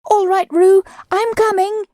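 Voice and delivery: calling out. A narrator's reading. Christopher Robin calling to Roo while hurrying. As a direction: call ahead as you run. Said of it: "called Christopher Robin".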